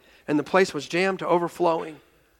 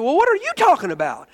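retold bewilderment; 10 semitones higher, 6 dB louder than usual. Mutual confusion in retold phone call.

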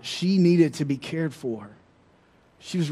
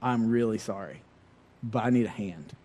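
softer, apologetic plea; sheepish ask; 5 semitones lower, 6 dB quieter than usual. Retold or imitated. Calling his friend for help, softer and apologetic. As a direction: ask your friend for help, lowered and sorry. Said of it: "I was like".

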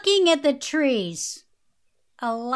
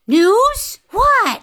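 startled; 7 semitones higher, 7 dB louder than usual. Acted. Startled fairy, confused by news.

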